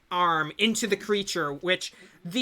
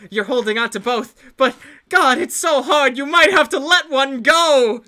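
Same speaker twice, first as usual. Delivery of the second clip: loud, higher strained voice as if lifting something heavy; mock straining; 6 semitones higher, 10 dB louder than usual. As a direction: grunt it out like you're holding two heavy bodies.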